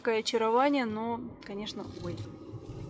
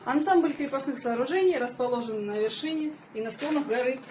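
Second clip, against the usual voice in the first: a lightly louder presenter read to camera; vlog presenter; 4 dB louder than usual. Acted. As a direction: introduce the fortress like a tour guide. Presents the fortress to viewers.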